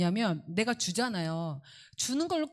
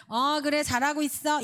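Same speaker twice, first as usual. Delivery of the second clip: higher, upbeat parental okay; encouraging reassurance; 7 semitones higher, 4 dB louder than usual. Shown as a demonstration. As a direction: show how to reassure a checking child. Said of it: "이렇게 해주시면 돼요". (높은 어조로 격려하며 안심시키기)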